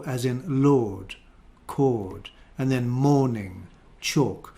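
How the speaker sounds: "lord", "cord", "morning", "chalk" with RP O; careful model words; RP vowel. Shown as a demonstration. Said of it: "one O".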